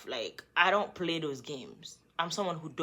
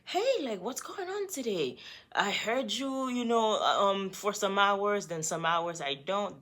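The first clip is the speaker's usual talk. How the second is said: put-on girly texter voice; 3 semitones higher than usual. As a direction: read her message like a clingy girlfriend. Reading the other girl's texts.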